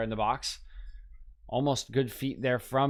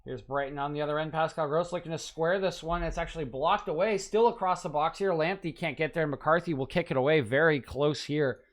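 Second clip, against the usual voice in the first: excited commentary; 4 semitones higher than usual. Acted. Streamer calling a Brighton attack for viewers, rising excitement. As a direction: call the chance as it unfolds, rising with it.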